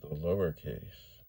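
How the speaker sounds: slow, drawn-out reveal of "the lowercase"; punchline reveal. Shown as a demonstration. Explaining letter cases to viewers, slow punchline delivery. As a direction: land "the lowercase" slowly as the pay-off after a pause. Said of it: "wait for it".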